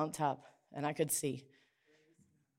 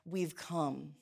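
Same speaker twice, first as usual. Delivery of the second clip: grateful; much slower than usual. Retold or imitated. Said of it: "looking back and being like".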